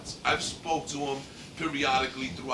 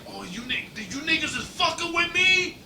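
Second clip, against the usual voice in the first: high, rising mock outburst; retold outburst; 13 semitones higher, 4 dB louder than usual. Friend realizing he has been pranked, mock outraged outburst. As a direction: get louder and higher as it dawns on him.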